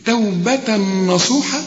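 توبة نصوحة slow and measured; recitation. Shown as a demonstration. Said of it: "هنا هنقول إيه". (تلاوة بطيئة)

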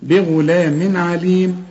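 بغلام عليم slow with a clear نون before عين; slow recitation. Shown as a demonstration. Teacher models the phrase slowly. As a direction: recite بغلام عليم, show the tanween plainly. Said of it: "عشان تقول بغلام".

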